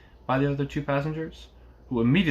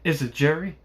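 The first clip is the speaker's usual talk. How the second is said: higher, slightly anxious questions; mildly quavering; 4 semitones higher than usual. A narrator's reading. Passenger answering a call at night, mildly quavering. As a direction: ask with a touch of quaver. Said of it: "Then, with mildly quavering speech".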